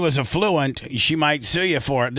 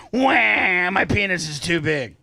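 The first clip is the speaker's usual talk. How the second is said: mock crybaby; 4 semitones higher, slower than usual. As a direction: fake wailing, whiny. Mock crying plaintiff.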